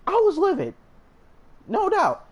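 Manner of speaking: I was livid pitched high and loud; emphatic declaration. Real, not acted. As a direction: belt it out with conviction. Emphatic climax of his anger.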